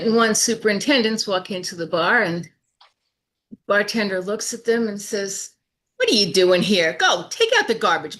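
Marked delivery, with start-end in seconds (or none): 6.0-8.2 gruff order. Acted. Bartender orders superintendents around in joke.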